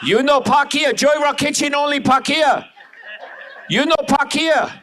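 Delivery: high-pitched mock East Asian accent. Comic mimicking a restaurant parking warning, mock East Asian accent.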